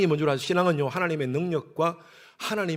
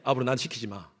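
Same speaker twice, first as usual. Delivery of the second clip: Gyeongsang dialect; 6 semitones lower than usual. Retold or imitated. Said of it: "경상도 말로".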